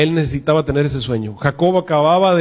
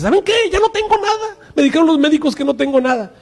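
much higher, bursting with good news; joyful announcement; 10 semitones higher than usual. Acted. Pastor voices a healed member telling the church, overjoyed. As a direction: tell the brothers you're healed, thrilled.

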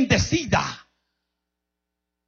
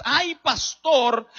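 mocking whine; much slower than usual. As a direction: stretch "ay, pastor" out with mock weariness. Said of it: "y todo es". ("ay, pastor" lento y burlón, arrastrado)

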